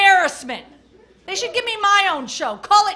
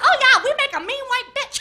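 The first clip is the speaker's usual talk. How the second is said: mock Chinese voice; 7 semitones higher than usual.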